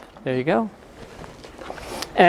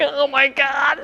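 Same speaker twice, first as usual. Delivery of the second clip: mock astonishment; 8 semitones higher, 3 dB quieter, slower than usual. Acting stunned reaction to docent.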